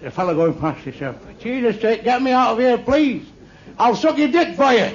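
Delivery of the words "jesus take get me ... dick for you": higher-pitched mock begging; comic desperation; desperate plea. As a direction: give in and beg to be pulled out. Sinking runner begs to be saved.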